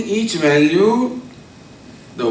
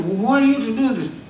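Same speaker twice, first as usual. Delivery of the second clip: angry retort; 7 semitones higher than usual. Retold or imitated. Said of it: "and he got more angry".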